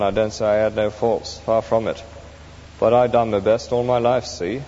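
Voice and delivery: a touch of a grumbling, self-justifying cockney ghost; lightly voiced aggrieved ghost; self-righteous ghost. The ghost pleads his case at heaven's gate, mildly aggrieved.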